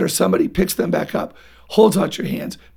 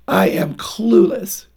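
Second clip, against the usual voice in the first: put-on slow child's lament; slower than usual. Shown as a demonstration. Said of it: "what I call the "I am" statement".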